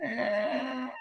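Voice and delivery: high, very soft "eh"; imitated noise. Retelling how a wrestler just was, soft high "eh". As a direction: let out a tiny high-pitched eh.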